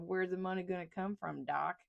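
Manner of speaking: lightly put-on East Texas Southern accent; a hint of a folksy Southern senator's accent. Mocking the senator's funding question, light Southern accent. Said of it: "I'm putting on our, our accent".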